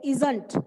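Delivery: ISN'T said as one joined word; contracted pronunciation. Shown as a demonstration. Teacher showing pupils how to say it, "isn't" as one word. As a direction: run "isn't" together, ending on a quick -nt. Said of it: "इसको बोलते हैं".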